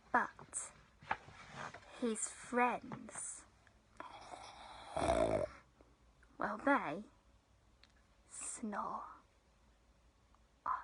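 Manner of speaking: soft, halting, sleepy narration; hushed ending. A narrator's reading. Storyteller reveals the friends are asleep, hushed. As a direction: let it fade, with long pauses.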